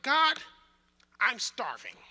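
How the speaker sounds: loud, high mock cry of hunger; mock desperate cry. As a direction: cry out to God, hammed-up starving. Pleading with God, retold.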